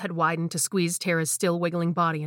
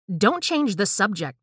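slow, sharp, louder retort; spat angrily; 3 semitones higher, 4 dB louder, slower than usual. Acted. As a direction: spit the words out with contempt. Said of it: "Tara spat".

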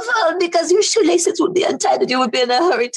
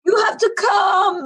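mock tearful plea; 3 semitones higher than usual. Madam inviting to castle.

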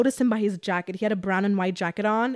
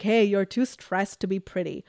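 flirty. Retold or imitated. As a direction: coo it slowly to the bouncer. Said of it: "I'm so flirty and seductive".

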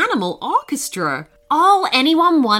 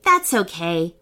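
lower, forgiving reassurance; kindly; 5 semitones lower than usual. Acted. Hanifa forgives the T-Rex, kindly. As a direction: let them off kindly, softening the apology's sting. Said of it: "said Hanifa kindly".

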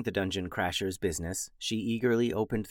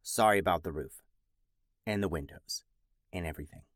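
softer, lower, trailing off; sheepish apology; 5 semitones lower, 6 dB quieter, faster than usual. Retold or imitated. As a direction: mumble the apology, fading out.

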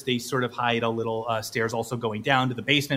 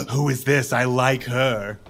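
mom voice; 3 semitones lower than usual. Acted. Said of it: "looks over at Bello".

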